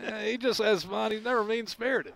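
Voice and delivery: high, measured broadcaster voice; Chris Collinsworth voice. Retold or imitated. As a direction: play it like a TV football analyst. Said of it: "Chris was just like".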